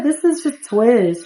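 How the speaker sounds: a hint of a girl explaining her hair slowly; correcting Sim girl.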